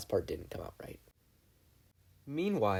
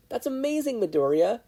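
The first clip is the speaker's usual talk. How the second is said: high, bright excited cheer; 13 semitones higher, 5 dB louder than usual. A narrator's reading. Ochako cheering for Midoriya's robot suit, excited. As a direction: gush over his new suit. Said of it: "Ochako cheered".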